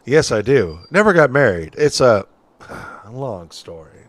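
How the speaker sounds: lightly voiced folksy witness; a hint of an old-timer telling his story; old-timey witness.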